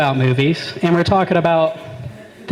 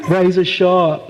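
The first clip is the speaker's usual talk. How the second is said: slow, drawn-out ominous set-up voice; movie monster hype; slower than usual. Retold or imitated. Comic mocking films that set up the monster, hammy slow menace. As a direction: stretch out each menacing word slowly.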